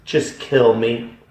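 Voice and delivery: a retold cry to God from the edge of the pit. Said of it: "I cried out".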